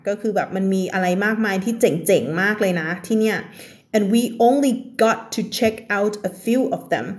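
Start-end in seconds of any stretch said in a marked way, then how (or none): 3.9-7.1 slow reread. Shown as a demonstration. Reread for learners.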